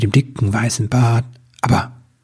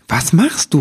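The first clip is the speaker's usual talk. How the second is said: excited; 5 semitones higher than usual. Acted. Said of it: "rief Nibelwurz aufgeregt".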